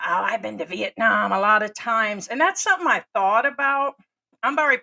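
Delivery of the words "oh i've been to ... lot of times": lightly voiced whiny tourist, a touch set apart from his own voice; a hint of a mock complaining traveler. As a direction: poke fun at the guy bragging he's been to Vietnam. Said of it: "And the guy, it's about".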